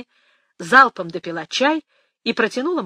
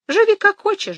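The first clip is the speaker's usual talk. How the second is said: high mock grandmother; 13 semitones higher, 8 dB louder than usual.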